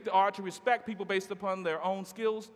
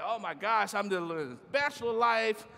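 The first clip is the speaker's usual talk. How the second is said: giddy bachelor self; 2 semitones higher than usual. Retold or imitated. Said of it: "and I'm like".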